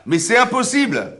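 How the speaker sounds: plus haut, plus fort et lent; indignation emphatique. Acted. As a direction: marteler l'impossibilité. Le prof s'indigne devant la classe. (le prof s'exclame devant ses élèves, indigné et appuyé)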